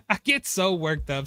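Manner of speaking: laughing at himself through "I get so worked up"; sheepish giggle while confessing. Real, not acted.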